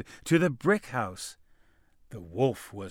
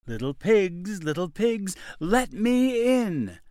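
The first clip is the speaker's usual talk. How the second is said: wolf voice; 7 semitones higher, 4 dB louder than usual. A narrator's reading. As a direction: call out sweetly like a sly wolf. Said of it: "said the wolf".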